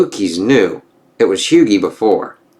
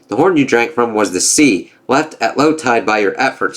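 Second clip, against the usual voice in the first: lightly voiced gods trading taunts; storybook reading of a Norse comic; comic dialogue read-aloud; 2 semitones higher than usual. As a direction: read the panels with a hint of character.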